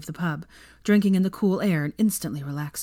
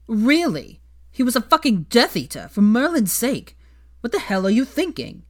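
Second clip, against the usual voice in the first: high, loud indignant shout; outraged shout; 6 semitones higher, 5 dB louder than usual. A narrator's reading. Ron shouting at Hermione across the pub. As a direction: blast it at her. Ron's tirade continues.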